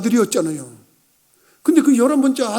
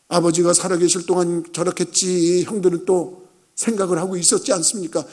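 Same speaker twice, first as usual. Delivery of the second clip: usual speaking voice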